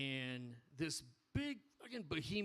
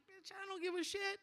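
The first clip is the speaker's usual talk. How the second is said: retold defiance; 3 dB quieter than usual. Retold defiance to big guy.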